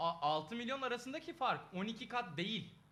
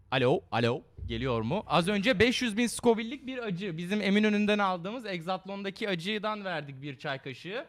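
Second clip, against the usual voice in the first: loud announcing; 2 semitones lower, 11 dB louder than usual. Real, not acted. Announcing to stream loudly.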